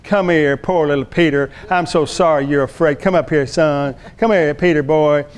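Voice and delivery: cooing comfort, put on; mock sympathy. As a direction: pretend to console poor little Peter. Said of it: "Jesus didn't".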